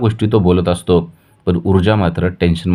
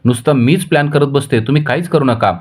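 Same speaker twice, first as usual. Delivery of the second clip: higher, sarcastic jab; a mock-hurt, irritated retort; annoyed; 6 semitones higher than usual. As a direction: Vijaya irritated with her husband, hitting back sarcastically. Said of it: "Vijaya चिडते आणि म्हणते".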